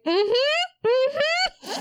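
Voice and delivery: high, sing-song absent mm-hmm; fake polite agreement. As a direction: humor her while distracted. Feigned interest while reading.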